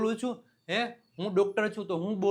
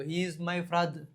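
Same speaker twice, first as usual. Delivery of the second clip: slow and even, word by word; slow dictation; 3 semitones lower, 4 dB quieter, much slower than usual. Shown as a demonstration. Teacher translating for the class, slow and careful. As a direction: say it carefully for learners. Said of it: "તે મારા પપ્પા છે".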